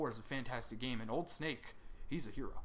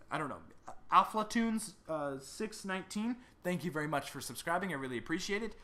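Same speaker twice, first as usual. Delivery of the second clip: ordinary delivery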